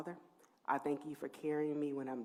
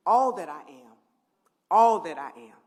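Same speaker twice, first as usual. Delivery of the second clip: emotional swell; 16 dB louder than usual. Real, not acted. Emotional tribute to her family.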